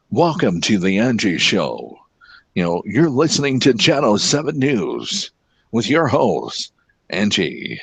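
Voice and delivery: lightly voiced radio announcer intro; radio promo voice. Shown as a demonstration. Telling his friend he loves promos, he tosses off a light radio announcer intro. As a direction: sell it like a station promo, but only lightly. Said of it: "I love promos".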